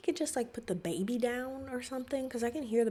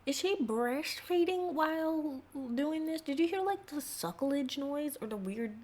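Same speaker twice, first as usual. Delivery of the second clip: incredulous; 7 semitones higher than usual. Real, not acted. Disbelief at the video.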